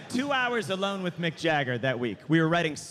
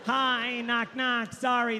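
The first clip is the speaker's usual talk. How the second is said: timid apologetic entrance; 5 semitones higher, slower than usual. Retold or imitated. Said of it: "That's how I walk into rooms".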